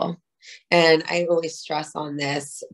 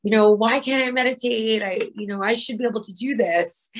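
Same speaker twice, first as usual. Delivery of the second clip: mildly exasperated self-talk, pitched up; frustrated; 4 semitones higher, faster than usual. Acted. Meditator berating themselves over a wandering mind, mildly frustrated. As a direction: complain at yourself, a touch higher. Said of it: "I'm gonna get so frustrated".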